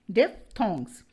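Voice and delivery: DIPHTHONGS in two clear parts, dif-thongs; diphthong pronunciation. Shown as a demonstration. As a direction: model "diphthongs" with PH as F. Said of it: "Pronounce the diphthongs". (diphthongs को डिफ़-थॉंग्स की तरह साफ़ बोलें)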